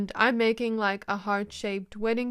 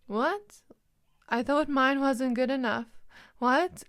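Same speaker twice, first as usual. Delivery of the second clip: put-on surprised child; 3 semitones higher than usual. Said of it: "the child's like".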